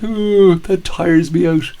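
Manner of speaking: yawning through the words; acted yawn. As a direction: stretch it out in a big yawn. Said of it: "That first yawn was me acting out a yawn".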